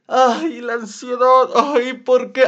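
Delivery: mock a self-pitying sufferer; hammed-up anxious moaning; whiny complaining. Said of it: "en lugar de decir".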